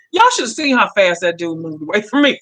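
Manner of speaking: telling it through a laugh; tickled by the memory; amused. Real, not acted. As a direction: laugh breaking into the words. Amused at man backing off.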